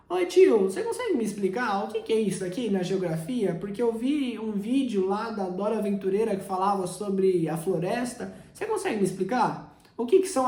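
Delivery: lightly voiced little girl asking; a hint of a curious small child; five-year-old cousin. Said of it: "sua prima de cinco anos de idade".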